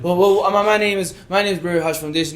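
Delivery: stammered, nervous doorstep introduction. Retold or imitated. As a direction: act out stumbling nervously through a first pitch. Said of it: "I'm just nervous".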